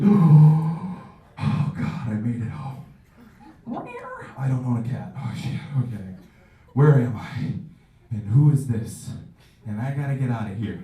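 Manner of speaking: loud groggy dread; mock morning-after panic; hungover panic. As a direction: wake up terrified, loudly. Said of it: "woken up like Dracula".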